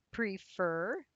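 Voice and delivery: prefer with the weight on -fer; prefer, second syllable drawn out for learners; stress on second syllable. Shown as a demonstration. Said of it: "the stress is on the second syllable".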